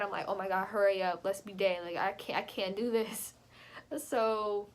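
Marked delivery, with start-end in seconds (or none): 0.3-3.3 scared inner voice. Retold or imitated. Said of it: "in my head".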